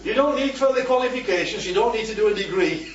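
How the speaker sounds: God brushing aside Gideon's doubts, emphatic; emphatic reassurance. Retold or imitated.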